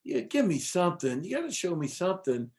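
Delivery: mock-exasperated begging; retold pleading. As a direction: press playfully for a sign. Acts out renewed begging.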